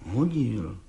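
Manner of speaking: soft, stubborn mumble. A narrator's reading. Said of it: "mumlal ... s beraný tvrdohlavostí". (tiše, tvrdohlavě zamumlané)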